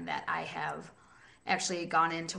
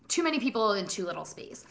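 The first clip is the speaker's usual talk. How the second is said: whisper; faster than usual. Real, not acted. Unvoiced aside.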